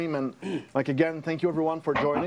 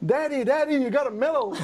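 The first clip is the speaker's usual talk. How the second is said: put-on excited child voice; 7 semitones higher, 3 dB louder than usual. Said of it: "my seven-year-old wakes up and like".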